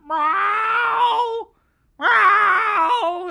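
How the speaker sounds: loud high mock cat yowl. Streamer imitating his cat, a loud high yowl. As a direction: screech it like a frantic cat.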